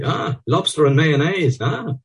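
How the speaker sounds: high gleeful relish. A narrator's reading. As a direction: savour it with glee. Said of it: "Lenihan smells gleefully".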